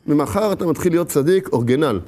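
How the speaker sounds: low-key tempter's reply; casual coaxing. Acted. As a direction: drop low and talk them round. Tempter answers the refusal.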